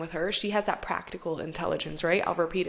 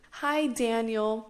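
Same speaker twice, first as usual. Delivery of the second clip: charming friend; 4 semitones higher, slower than usual. Retold or imitated. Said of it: "try my best to reenact the way".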